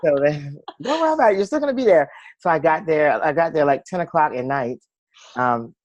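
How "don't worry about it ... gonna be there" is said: high, sing-song reassurance; mimicking a friend. Friend soothing her about the missed flight, in a high sing-song voice. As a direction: lightly chirp it like an airy friend. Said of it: "one of my friends was like".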